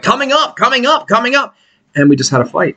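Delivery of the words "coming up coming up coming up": higher rising announcer teasers; higher sing-song coming up. Retold or imitated. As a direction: repeat it like a hyped announcer.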